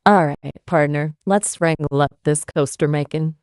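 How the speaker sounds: put-on a cowboy Texan accent; hammed-up Texan accent. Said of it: "Can you explain again in a Texan accent".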